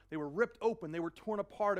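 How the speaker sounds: forceful emphatic preaching. Real, not acted. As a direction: hit it hard like tearing. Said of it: "it means they were".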